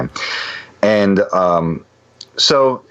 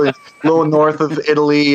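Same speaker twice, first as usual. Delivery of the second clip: much higher, eager, pitched up; excited insisting; 8 semitones higher than usual. Retold or imitated. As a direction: rattle off the fact to prove you know it. Insisting he knows Slovenia.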